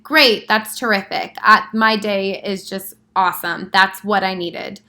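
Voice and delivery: sarcastic. Shown as a demonstration. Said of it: "your reaction would be to say something like".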